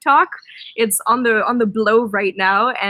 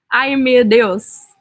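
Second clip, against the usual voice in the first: Brazilian exclamation; 6 dB louder, slower than usual. Retold or imitated. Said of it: "he loves saying "meu Deus".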